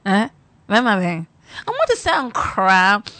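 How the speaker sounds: mock wife pleading. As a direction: cry out to my Ben. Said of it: "Ben Maje, say".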